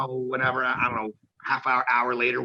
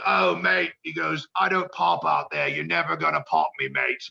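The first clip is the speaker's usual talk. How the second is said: veteran brushing off; 3 semitones higher than usual. Retold or imitated. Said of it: "And he just goes".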